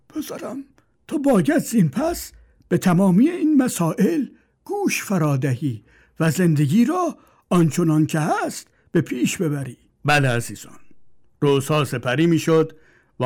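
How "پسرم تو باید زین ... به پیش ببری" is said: put-on high old man's voice advising; old father counsels his son. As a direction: plead like a frail father.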